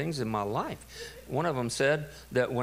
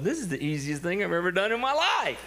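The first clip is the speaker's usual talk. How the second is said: acted-out gloating, rising high at the end; mock-triumphant, higher pitched; gleeful self-talk; 5 semitones higher than usual. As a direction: crow to yourself over an easy prank. Gleeful dad boasting to himself.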